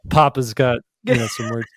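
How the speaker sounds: lightly voiced joking dad; a hint of mock fatherly authority. Host as Papa with some words for his son, light dad voice. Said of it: "the host just put on his dad voice".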